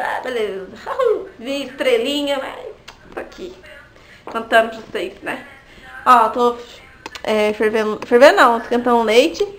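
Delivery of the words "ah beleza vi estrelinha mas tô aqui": laughing. Real, not acted. Laughing about the birth pain.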